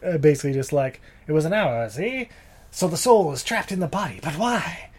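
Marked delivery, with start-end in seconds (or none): 1.3-4.9 mad scientist voice. Retold or imitated. Retelling a mad doctor's lines.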